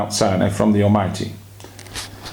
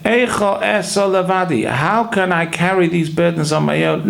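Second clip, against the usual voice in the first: higher-pitched, resolute reading with falling phrases; not questioning; 6 semitones higher than usual. Shown as a demonstration. Moses facing his people's burdens, determined rather than questioning. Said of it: "Not in a questioning tone".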